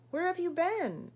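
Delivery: high, loud eager question; excited. Acted. Fish greeting returning friend, excitedly. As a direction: burst out with eager delight. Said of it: "asked the fish excitedly".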